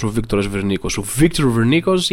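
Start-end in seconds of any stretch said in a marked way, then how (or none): 1.2-2.1 English pronunciation. Shown as a demonstration. Comedian setting the singer apart from his Greek namesake, English pronunciation. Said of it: "Το γράφει με αγγλικούς χαρακτήρες".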